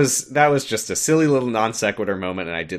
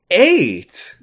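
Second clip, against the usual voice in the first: mock Amy; 8 semitones higher, 6 dB louder than usual. Amy counting, acted quote.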